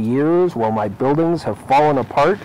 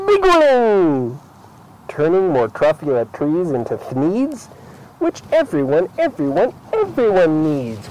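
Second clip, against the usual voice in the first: mild defiant rant; 4 semitones higher than usual. Acted. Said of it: "I got terribly mad".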